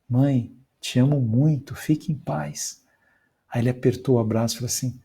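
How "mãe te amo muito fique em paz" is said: gentle farewell. Shown as a demonstration. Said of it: "fala isso pra sua mãe".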